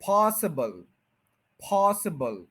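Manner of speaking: पॉसिबल with पॉस stressed; पॉसिबल, first syllable strong; stress on POS. Shown as a demonstration. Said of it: "पीओएस पे stress है".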